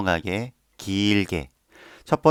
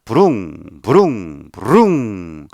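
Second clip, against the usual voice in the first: louder engine brrm; motorbike imitation; 4 dB louder, much slower than usual. Shown as a demonstration. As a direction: rev it up like a motorbike. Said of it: "내가 그 오토바이 소리를 낸다".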